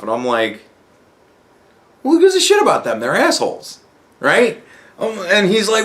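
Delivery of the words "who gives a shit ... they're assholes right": exasperated outburst. Retold or imitated. Retelling his reply to a friend, exasperated high outburst. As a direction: pitch jumps high on who gives a shit, then drops.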